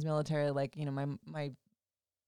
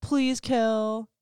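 higher, louder, mock pleading; 6 semitones higher, 5 dB louder, much slower than usual. Ex begging her to hang out at the bar, whiny mock plea. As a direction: whine it like a begging ex. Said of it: "And he's like".

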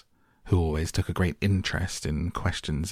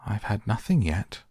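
offended; 4 semitones higher than usual. Acted. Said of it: "in an offended tone".

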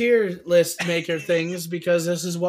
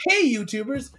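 YouTube voice; 4 semitones higher than usual. Retold or imitated. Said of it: "my YouTube voice is".

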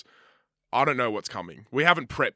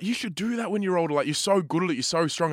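higher-pitched hype-mum voice; lightly voiced admiring mum; encouraging mum; 6 semitones higher than usual. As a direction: imitate a mum cheering on her kid. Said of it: "my mum was like".

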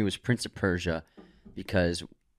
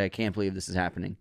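muttered disbelief; 4 semitones lower, 6 dB quieter, faster than usual. Retold or imitated. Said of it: "I was watching it in theaters like".

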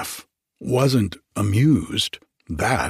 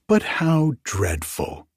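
mild exclaim; 3 semitones higher than usual. Acted. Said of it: "she cried".

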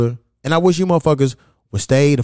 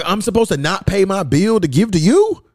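incredulous retort; 6 semitones higher than usual. Acted. Acted reply to money request.

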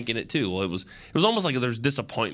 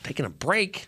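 much higher put-on voice, mock indignant; mock scolding; 8 semitones higher than usual. Fan annoyed at Parsons sitting on the bench, mock scolding. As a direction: tease him like an annoyed coach. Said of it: "I get mad when he's on the bench".

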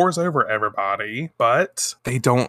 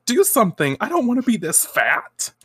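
high, hammed-up whine; whiny demand; 9 semitones higher than usual. A customer begging Sailor V to change her back, whiny demand. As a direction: wail like a spoiled customer. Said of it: "the other person's like".

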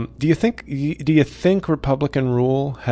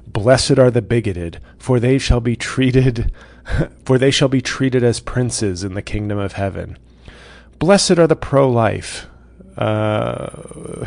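mock Republican Jesus; slower than usual.

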